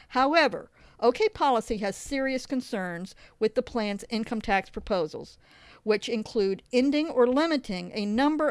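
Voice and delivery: measured, emphatic reading of a report; formal read-aloud voice; article read-aloud. Real, not acted. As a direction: read it out clearly, phrase by phrase. Reads blog post aloud.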